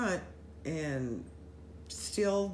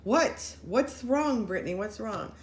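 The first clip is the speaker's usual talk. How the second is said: alarmed; 4 semitones higher, 4 dB louder, slower than usual. Retold or imitated. Alarmed at friend freaking out.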